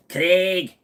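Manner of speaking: "Craig" with a short "egg" vowel; "Craig" as "Creg". Shown as a demonstration. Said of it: "a little bit of the egg".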